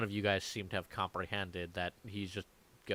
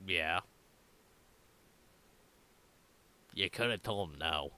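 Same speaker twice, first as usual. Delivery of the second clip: slightly lowered, understated character voice; lightly voiced Tim, drawing out the puzzled okays; Tim, a confused loner; 7 dB quieter, slower than usual. Game master as Tim, confronted in his private loft, quietly confused.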